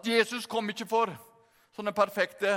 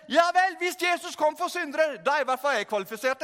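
eager realisation; 4 semitones higher than usual. Retold or imitated. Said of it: "så tenkte jeg at".

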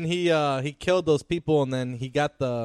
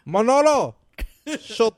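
barked name; 8 semitones higher, 7 dB louder than usual. Retold or imitated. Quoting Tony's order.

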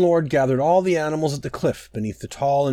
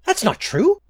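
very high, tiny voice; insistent butterfly. A narrator's reading. Small butterfly contradicts the mighty fawn lord, high and insistent. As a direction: protest in a high little butterfly voice. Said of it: "Butterfly insisted".

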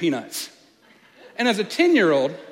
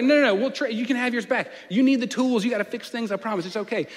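put-on wheedling kid; 7 semitones higher than usual. Kid bargaining with grandfather.

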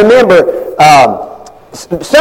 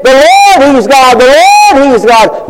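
high, loud proclaimed cry; shouted praise; 8 semitones higher, 4 dB louder than usual. Retold or imitated. People who fell down shouting their praise to God, high and loud. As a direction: call it out like a crowd on its knees.

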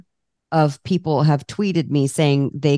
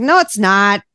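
laughing disbelief; can't believe who just walked by; incredulous; 2 semitones higher than usual. Retold or imitated. Disbelief at spotting Ariana Huffington.

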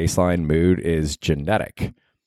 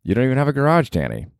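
higher, needling voice of doubt; nagging inner critic; 7 semitones higher than usual. Retold or imitated. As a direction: scold yourself for your life choices. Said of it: "But then I'm like".

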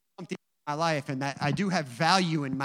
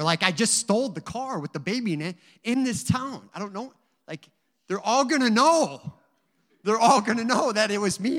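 reliving the panic at being asked to read, louder; panicked, loud; 5 semitones higher, 6 dB louder than usual. Retold or imitated. Preacher to congregation, reliving his panic loudly. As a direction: voice climbing in alarm at the thought. Panicking about reading in church.

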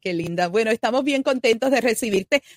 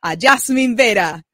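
big announcer welcome; 3 semitones higher, 7 dB louder than usual. Acted. Host welcoming Jasmine to the studio, loud announcer call. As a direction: call the guest in like a stage presenter.

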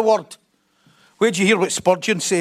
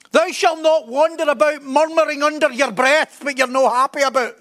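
lightly hammed-up preacher declaiming; higher-pitched mock oratory, as if to a huge crowd; Charles Spurgeon; 4 semitones higher than usual. Spurgeon speaking to ten thousand people, mock declamation. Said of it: "you imagine him speaking like that".

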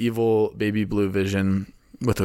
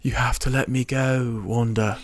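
a clumsy fake British accent, lightly done; mock British Vision pleading gently; bad British accent. Wanda's husband bidding farewell in a bad British accent. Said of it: "with my really bad British Paul Bettany accent".

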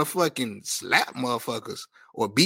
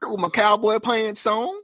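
put-on country accent, climbing at the end; playful country accent. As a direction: lay on a country accent, stretching the last words. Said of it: "I don't like your country accent".

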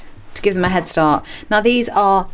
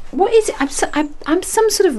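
pet voice; 12 semitones higher than usual. Real, not acted. Talking to the cat.

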